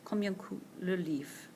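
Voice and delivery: slow, careful French combien coûte le livre; French model phrase. Shown as a demonstration. Teacher modelling French for the class, slow and clear. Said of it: "For example".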